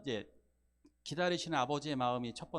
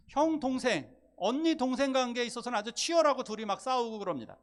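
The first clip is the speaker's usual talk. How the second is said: louder and higher, pressing each point home; fervent preaching; 7 semitones higher, 7 dB louder than usual. Acted. Pastor urging the congregation about the waiting father, fervent. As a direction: preach it with rising force.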